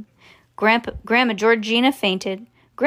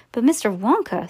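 ordinary delivery, nothing marked

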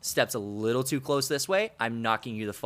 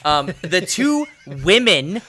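overly careful correction; 5 semitones higher, 9 dB louder, slower than usual. Pretend. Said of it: "is that okay?".

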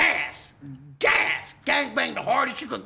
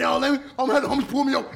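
mocking whiny quote; 4 dB louder, much faster than usual. Mocking soft gang members.

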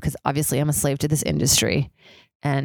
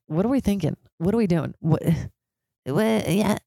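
mock self-doubt; 3 semitones higher than usual. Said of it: "I'm like".

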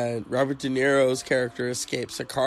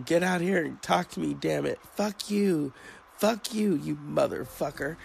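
higher mock yell at a man; hammed-up movie tantrum, pitched up; imitating a screaming rant; 4 semitones higher than usual. Retelling a Casino scene to a cohost, higher mock yell. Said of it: "she's screaming at him".

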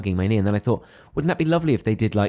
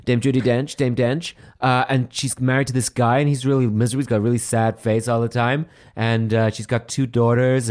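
American fan voice. Retold or imitated. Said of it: "they can't understand how a dame".

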